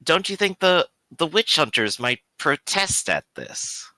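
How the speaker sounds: lightly voiced priest, raising a doubt; Father Leon. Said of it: "Father Leon will actually look up and go".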